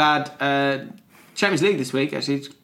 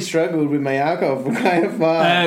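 put-on American accent; 2 semitones higher, 4 dB louder than usual. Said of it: "doing it in an American accent".

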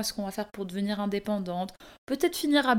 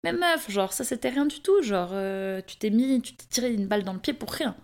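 future self teasing; 3 semitones higher than usual. Pretend. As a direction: laugh it off as your future self. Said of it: "genre être là".

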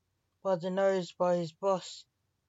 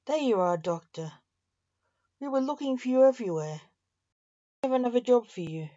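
raised, higher, hurried call; 5 semitones higher, 5 dB louder, faster than usual. A narrator's reading. Orderly hails the doctor they were looking for, calling out quickly. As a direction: hail someone urgently, a bit louder and faster.

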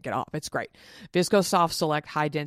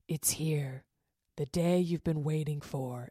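slow breathy whisper from the app; hushed meditation voice; 5 dB quieter, slower than usual. Retold or imitated. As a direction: whisper it like a calm guide, slowly. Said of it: "And she's like".

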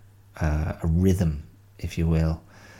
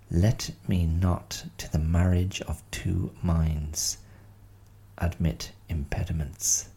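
sonnet recital. Shown as a demonstration. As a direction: recite it with care, line by line. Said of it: "reciting Sonnet one one six".

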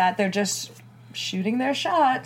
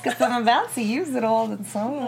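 high, louder sugary lady voice; 6 semitones higher, 3 dB louder than usual. Pretend. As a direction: show off a high girly voice. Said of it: "Do you like this lady voice".

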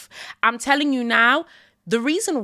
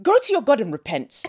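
exasperated call-out; 9 semitones higher than usual. Real, not acted. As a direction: shout it out in disbelief. Calling out pastors mockingly.

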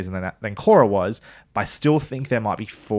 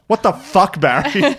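exasperated outburst; 7 semitones higher, 4 dB louder, slower than usual. Retold or imitated. Quoting Jean's outburst at Barry.

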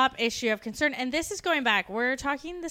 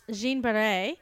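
French accent; slower than usual. Shown as a demonstration. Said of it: "I loved your French accent there".

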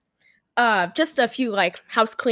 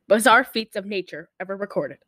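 measured movie-prologue reading; dramatic reading; 4 semitones lower than usual. Acted. Host reads the film's opening text to co-host, measured dramatic reading. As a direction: read it out like a film's opening card.

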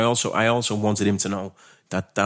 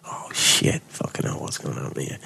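whispered inner panic, breathy and low; under-the-breath swearing as the line goes silent; panicked whisper; 7 semitones lower, 3 dB quieter, slower than usual. Retold or imitated. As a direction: hiss it to yourself in a sudden fright. Panicked inner thought on phone.

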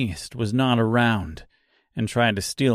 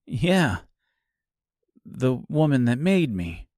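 lightly voiced scarecrow; 2 semitones higher than usual.

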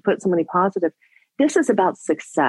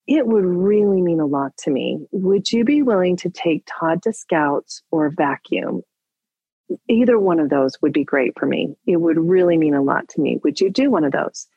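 softened tone; 3 semitones lower than usual. Retold or imitated. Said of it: "I softened my tone of voice".

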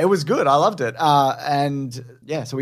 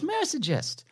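reading voice; 6 dB quieter than usual. Pretend. Reading listener's review aloud.

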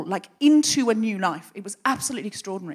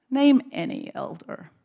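slow challenge; 2 semitones lower, slower than usual. Retold or imitated. Elder testing her, trying to catch her.

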